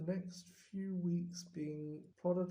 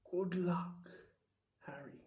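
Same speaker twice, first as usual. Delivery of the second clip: murmured. Acted. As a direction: breathe it gently, barely voiced. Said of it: "he murmured".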